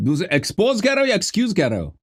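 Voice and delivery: scoffing challenge; incredulous challenge. Real, not acted. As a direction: pitch up in disbelief. Challenging opponent's word choice.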